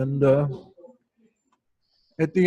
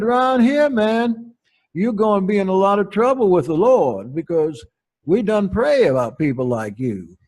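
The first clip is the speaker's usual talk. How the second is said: emphatic warning; 5 semitones higher than usual. Retold or imitated. Matriarch warning the preacher about the Lord, emphatic. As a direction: warn him with mock fervor.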